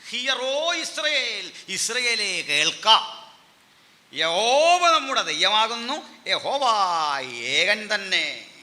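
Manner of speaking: high, loud, drawn-out scripture declaration; stretched, ringing proclamation; grand proclamation. Shown as a demonstration. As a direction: call out the creed to a nation. Proclaims the translated creed.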